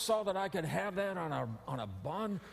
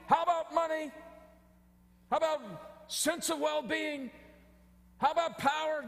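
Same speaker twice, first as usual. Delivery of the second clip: high, coaxing sales pitch; tempting huckster pitch; 10 semitones higher than usual. Retold or imitated. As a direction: wheedle like a salesman selling life. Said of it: "They're saying".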